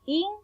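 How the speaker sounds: "In" alone, cut off from the rest of importantes; syllable set apart. Shown as a demonstration. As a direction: say "In" as a detached first syllable. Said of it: "la podemos dividir así". ("In" separada, como primera sílaba)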